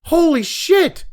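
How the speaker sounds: slow, high, drawn-out shock; stunned disbelief. Real, not acted. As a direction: let it sink in, aghast. Shocked at the news story.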